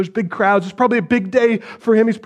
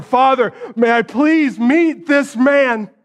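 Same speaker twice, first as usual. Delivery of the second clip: pleading cry; 5 semitones higher, slower than usual. Acted. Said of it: "does he pray to the Father".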